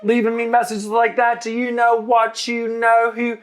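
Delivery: very high mock-outraged comeback; exaggerated high-pitched ranting impression; Aoife. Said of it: "and then Aoife's like".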